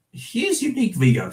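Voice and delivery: put-on New Zealand-accented impersonation, leaning Australian; Peter Jackson. Reading a director's fond quote to viewers, imitated New Zealand accent. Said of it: "I was imitating Peter, Peter Jackson".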